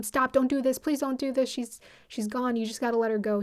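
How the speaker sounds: retold imploring, a touch insistent; mock urgent pleading. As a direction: imitate friends urging someone to stop. Retold friends urging him to stop.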